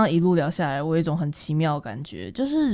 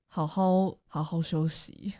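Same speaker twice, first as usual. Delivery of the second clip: slow, softer, tender words; gentle rest well; 2 semitones lower, 6 dB quieter, slower than usual. Retold or imitated. Tall quiet boy tells her to rest, slow soft tender. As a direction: say it softly and slowly, like he cared.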